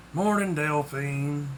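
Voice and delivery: slow, slightly deep grumbled greeting; weary, drawn-out reply with a touch of depth. A narrator's reading. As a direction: answer slowly in a mildly deepened voice. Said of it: "he said in a deep voice".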